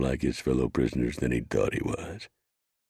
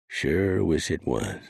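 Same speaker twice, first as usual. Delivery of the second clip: higher and slow, sorry deputy; drawn-out regret, higher voice; rueful deputy; 5 semitones higher, slower than usual. Acted. Rio repeats, slower.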